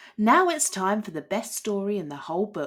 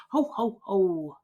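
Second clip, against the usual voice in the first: ugly giant laugh. A narrator's reading. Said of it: "The giant laughed an ugly laugh".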